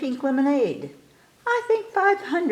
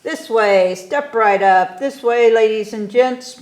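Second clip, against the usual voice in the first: louder barker calling the crowd in; circus barker call; 2 semitones higher, 6 dB louder than usual. Acted. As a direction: step right up, hawk to the crowd. Boy plays barker calling crowd.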